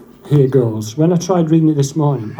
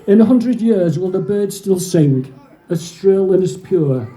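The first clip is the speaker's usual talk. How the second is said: measured reading of a war poem; poem recitation. Acted. Reciting a soldier's trench poem, solemn verse reading. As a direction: recite in lines, pausing between them.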